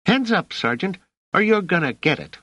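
hammed-up cry of a youngster holding someone up; shouting. A narrator's reading. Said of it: "and shouting".

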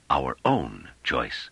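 "Our own choice" drawn out slowly, with weight on "own"; slow, deliberate stress on "own"; emphatic repetition. Acted. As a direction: dwell on "own", pausing before "choice". Character repeats phrase for emphasis.

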